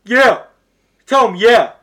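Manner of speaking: loud, high shout from far off; mock burly cook calling from far away; burly man far away. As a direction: bellow it from the back kitchen. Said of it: "burly ass man voice come from fucking far away".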